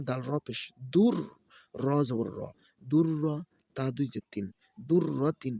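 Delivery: rhythmic letter-by-letter chanting; Quran-primer teacher's recitation; spelling drill recitation. Shown as a demonstration. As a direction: spell each syllable, then blend them. Spells out Arabic syllables for learners.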